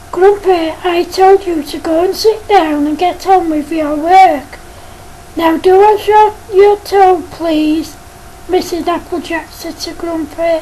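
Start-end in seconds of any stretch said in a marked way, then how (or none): 0.1-7.9 stern teacher. Acted. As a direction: scold the pupil firmly but lightly voiced. Teacher insists to Grumpy.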